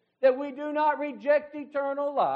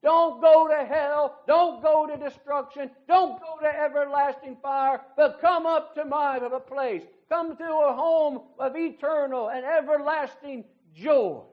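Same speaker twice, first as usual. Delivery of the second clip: preacher voicing God's plea; 3 dB louder than usual. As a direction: plead as God calling upward, hammering each don't. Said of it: "the voice of the great God of heaven who says".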